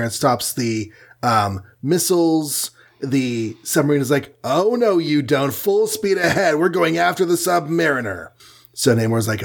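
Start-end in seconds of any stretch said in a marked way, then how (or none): 4.4-8.3 raised-pitch, hammed-up order to give chase; mock commander. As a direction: play a captain ordering pursuit. Submarine crew giving chase orders.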